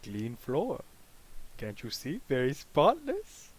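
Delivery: put-on Russian accent, slow and smug. Inmate covering for the acid, smug Russian accent. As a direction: point at the floor in a Russian accent. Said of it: "you know, Russian".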